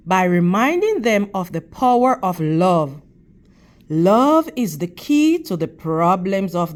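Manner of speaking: steady, expressive storybook reading to a class; reading to children. Acted. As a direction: read the picture book to the kids, clear and measured. Teacher reads picture book aloud.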